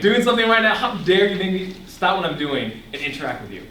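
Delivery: high, loud outburst that settles; hammed-up indignation at an interruption; mock upset. Young person protesting a phone call, mock upset. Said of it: "I get actually upset".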